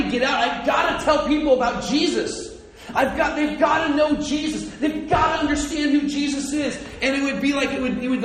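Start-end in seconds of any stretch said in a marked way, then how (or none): 0.4-6.8 high, urgent, impassioned outpouring; fiery compulsion. Acted. Apollos bursting to tell people about Jesus, fiery. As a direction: preach it like it has to get out. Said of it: "he had this fiery compulsion".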